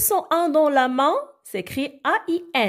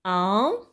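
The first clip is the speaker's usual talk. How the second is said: "Important" as im, por, tant with wide gaps; split into syllables; 3 semitones lower, faster than usual. Shown as a demonstration. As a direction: isolate each of the three syllables in "Important". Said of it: "Trois syllabes".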